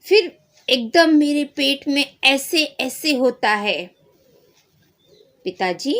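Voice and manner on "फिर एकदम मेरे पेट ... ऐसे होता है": loud, high puzzled dad; a father explaining to the doctor; worried father. Acted. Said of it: "पिताजी क्या बोलते हैं". (परेशान पिता)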